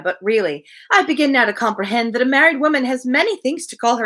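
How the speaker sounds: lightly voiced, eager society lady; gushing Mrs Elton. Reader voicing Mrs Elton to her friend, lightly gushing. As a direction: chatter on brightly, pleased with herself.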